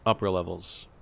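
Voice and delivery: cabin announcement, smooth and measured; captain PA announcement. Acted. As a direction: address the passengers like an airline captain. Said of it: "me do the P A".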